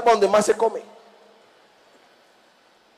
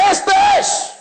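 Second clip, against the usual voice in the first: very high-pitched accusing call; imitated accusing cry. Teenager pointing out the speaker from the back of the hall, imitated accusing cry. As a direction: imitate a youth calling out the culprit across a room.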